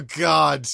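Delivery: dad-like groan of effort; drawn-out, put-on weary groan; imitated moan. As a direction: moan it as if easing into a seat. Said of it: "and I went".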